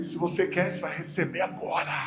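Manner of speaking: a hushed, assured promise; Rafael's manner. Retold or imitated. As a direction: drop it down, quiet and certain. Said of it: "E aí o jeitão dele".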